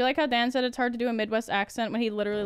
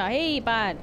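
mock North Dakota accent; 2 semitones lower than usual. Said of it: "It's just North Dakota".

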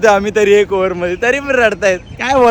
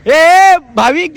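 high, drawn-out call; 4 semitones higher, much slower than usual. Real, not acted. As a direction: hail a teammate with a long, raised call. Calls out to a player.

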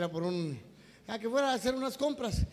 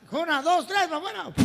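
high, loud countdown; emphatic, raised comic count; urgent count; 9 semitones higher, 7 dB louder than usual. Acted. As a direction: count up to the big push. Boyfriend counts for the push.

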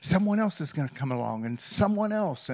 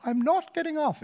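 second refusal jumps much higher; stubborn maid refusing soldiers, pitched up high; mock shrill refusal. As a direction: push the refusal up high in her voice. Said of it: "in her English accent".

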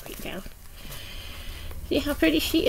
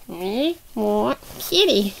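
slow, lightly voiced baby creature; Grogu; 3 semitones lower, slower than usual. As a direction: plead word by word as a toy creature.

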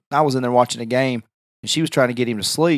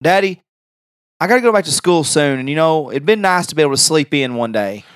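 put-on slightly high, louder whiny teen; teenage son; 3 semitones higher, 4 dB louder than usual. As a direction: complain like a sleepy teenager. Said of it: "I said, uh".

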